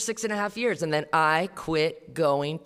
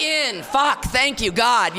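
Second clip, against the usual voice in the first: high, louder relieved outburst; sponsor's hammed-up thank-you to God; relieved exclaim; 5 semitones higher, 5 dB louder, much slower than usual. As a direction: burst out in mock relief. Sponsor's relief when they're in.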